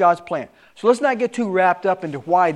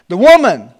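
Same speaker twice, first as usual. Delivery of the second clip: laughing through the verse; 10 dB louder than usual. Real, not acted. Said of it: "my wife is looking at me".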